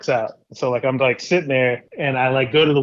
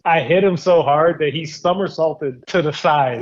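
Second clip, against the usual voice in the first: laughing; 2 semitones higher than usual. Real, not acted. Laughing while telling.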